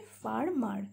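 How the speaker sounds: "farmer" split into far and mar; syllable by syllable. Shown as a demonstration.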